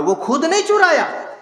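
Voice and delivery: high, amused laugh through the words; laughing at the thief's excuse. Real, not acted. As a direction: chuckle as you land the point. Punchline of the thief story.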